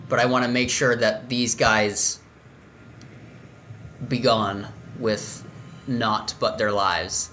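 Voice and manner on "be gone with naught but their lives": slow grand villain line; dramatic declaration. Acted. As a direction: savor each word darkly. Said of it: "I've really enjoyed saying that".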